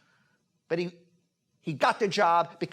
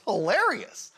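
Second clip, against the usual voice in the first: talking through laughter, pitch jumping higher; helpless laughter; 6 semitones higher than usual. Real, not acted. Acting coach mocking a student's monologue to the class, laughing. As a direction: break up laughing while trying to speak.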